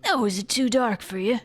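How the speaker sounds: lightly voiced dwarf with an accent; a hint of a put-on game character; Seem. Dwarf asking Sophie a favor, lightly put-on accent. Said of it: "I have to do an accent".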